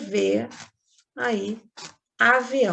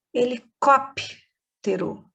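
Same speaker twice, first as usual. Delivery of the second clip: Helicóptero slowed, each syllable spelled out; slow dictation; slower than usual. Shown as a demonstration. Teacher slowly dictates a hard word to pupils. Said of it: "um P mudo".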